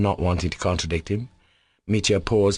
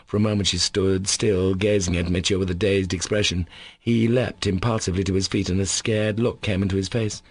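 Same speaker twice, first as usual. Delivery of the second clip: story narration; 2 semitones higher than usual. A narrator's reading. Narrating the meeting.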